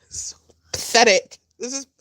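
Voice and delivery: whispered disgust. Real, not acted. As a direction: hiss it under breath. Disgusted aside.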